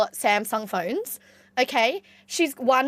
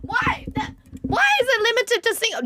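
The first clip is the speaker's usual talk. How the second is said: high, cracking pitch; high squeaky break on why; 10 semitones higher than usual. Real, not acted. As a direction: let the voice crack upward. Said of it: "my voice is cracking".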